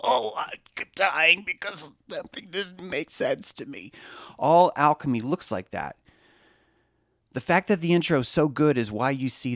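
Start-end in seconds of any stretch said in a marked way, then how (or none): 0.0-3.9 slower, mock-whiny confused viewer with a laugh breaking in; lightly voiced, mock-dramatic complaining viewer. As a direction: play the baffled commenter for laughs. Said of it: "just like someone types".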